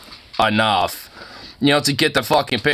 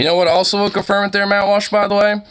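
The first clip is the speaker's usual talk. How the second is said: heated; 9 semitones higher, 3 dB louder, faster than usual. Real, not acted. Heated jab at Walsh.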